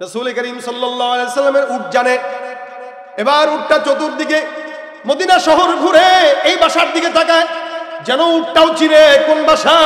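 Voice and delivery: loud, rousing sermon delivery; full-force preaching. Real, not acted. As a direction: preach it out, stretching the line endings. (জোরালো ওয়াজের সুরে)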